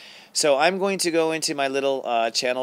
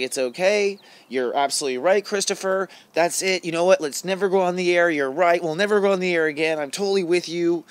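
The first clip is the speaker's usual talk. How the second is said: higher, louder, eager cheerleading voice; inner advocate; 5 semitones higher, 3 dB louder than usual. Retold or imitated. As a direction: hype yourself up like a loyal friend. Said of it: "I became my own advocate inside".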